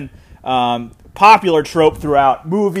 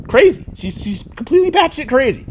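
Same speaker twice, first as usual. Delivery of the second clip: emphatic; 7 semitones higher than usual. Real, not acted. Calling a character crazy.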